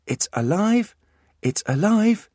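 high mechanical toy phrase; a squeaky toy's exclamation; toy monkey voice. Acted. The reprogrammed monkey toy cries out, high.

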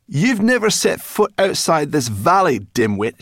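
high, loud scolding; angry. A narrator's reading. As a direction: lay into the fool furiously. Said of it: "She was angry now".

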